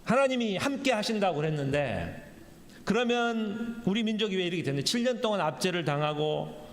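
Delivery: aggrieved, argumentative questioning; mildly acted indignant protest; confrontational complaint. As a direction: pile up grievances as if demanding answers from God. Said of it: "막 따지는 거예요".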